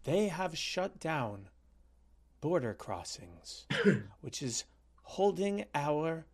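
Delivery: slow, halting mock politician; lightly put-on voice, words drawn out; Justin Trudeau. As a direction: draw it out like a parodied statesman. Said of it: "my Justin Trudeau voice".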